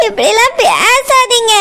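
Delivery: slow, tearful begging; crying plea. Acted. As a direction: beg him through tears. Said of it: "அழாத". (அழுதபடி மெதுவாக கெஞ்சுதல்)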